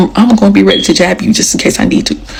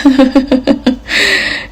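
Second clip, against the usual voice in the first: a high mock laugh, lightly done; imitating his laugh; 6 semitones higher than usual. Retelling his laugh in her face, high mock laugh. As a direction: give his laugh, pitched up. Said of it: "and he laughed".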